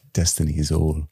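low, measured warrior catchphrase; odd TV-hero cadence. Acted. Fan quoting a show's hero, odd cadence. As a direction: imitate a hero's weird cadence. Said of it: "What's the cadence that he talks in".

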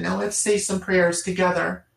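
slow, lightly voiced mother leading bedtime prayers; a hint of a patient mom, drawn out; mother guiding her child through prayers, slowly. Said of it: "And she says".

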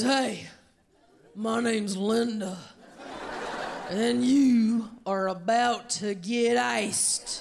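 lightly voiced tough older woman; slow, deliberate, mock-menacing announcement. Older woman challenges comedian on stage, mock menace. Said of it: "she looks at me, and she goes".

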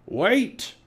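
high, urgent call; Captain Bones crying out. A narrator's reading. Pirate captain calling after his fleeing men, crying out. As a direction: holler after the crew. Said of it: "cried Cap'n Bones".

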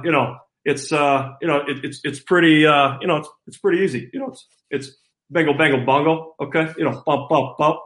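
lightly voiced coach impression, filler-laden and halting; Kirk Ferentz. Player imitating his coach for the host, lightly voiced coach impression. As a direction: talk like a coach tossing out stock phrases. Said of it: "recreate for us in his voice".

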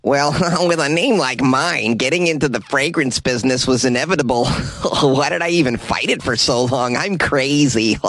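lightly voiced Elon Musk as nerd; nerdy impression with giggles. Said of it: "let's try an impression".

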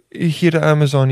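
tentative mock Italian accent; rough second go at Italian; Jeff Bezos with Italian accent. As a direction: try a light Italian accent. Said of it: "what does Italian sound like?".

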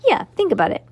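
eager and bright, pushing forward; enthusiastic. Acted. Max Ernest excitedly explains to Cass, enthusiastic. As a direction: sell the idea with real eagerness. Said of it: "said Max Ernest enthusiastically".

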